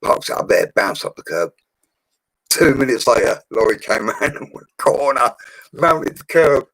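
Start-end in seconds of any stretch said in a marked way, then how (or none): 2.5-6.7 building excitement. Real, not acted. Telling mates how the lorry hit her car, excited. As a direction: wind up the story to the punchline.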